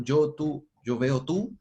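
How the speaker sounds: a hint of Tarzan grammar; Tarzan talk. Shown as a demonstration. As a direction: say it like a caveman Tarzan, just a hint. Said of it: "suena tarzanado".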